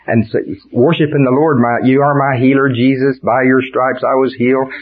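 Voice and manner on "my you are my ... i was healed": praying in worship. Acted. Acted worship prayer while sick.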